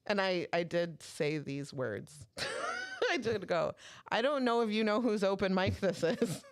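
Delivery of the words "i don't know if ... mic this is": higher-pitched indignant reminder, amused; retold confrontation. Host confronts comedian at own open mic, retold indignation. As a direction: pull rank on him.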